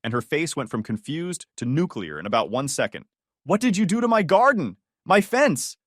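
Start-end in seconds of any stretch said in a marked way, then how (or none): 3.4-5.8 high, loud, outraged shriek at the intruder; angry neighbor yelling; furious outburst. Acted. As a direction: demand it like your garden was just trampled. Neighbor finds garden wrecked.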